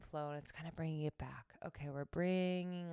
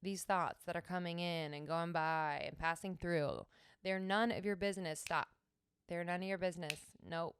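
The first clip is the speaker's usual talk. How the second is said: firm self-talk; 4 dB louder than usual. Shown as a demonstration. Teacher demonstrating firm self-talk to her thoughts. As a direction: scold your own thoughts firmly. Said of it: "I will say something like".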